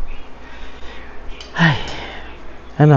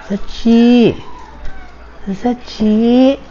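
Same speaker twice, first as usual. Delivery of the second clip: high call for the dog; 6 semitones higher, much slower than usual. Real, not acted. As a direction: call the dog from across the house. Calling the dog in the house. (tinatawag ang aso nang malakas)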